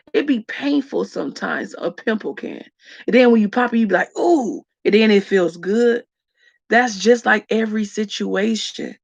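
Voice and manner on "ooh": short high "ooh" of relief; relieved ooh. Acted. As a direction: let out a quick, high ooh. Acting the relief of popping pimple.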